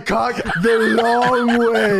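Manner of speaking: cracking up mid-quote; laughing Hogan impression. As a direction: laugh through the mock Hogan line. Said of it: "Hogan says".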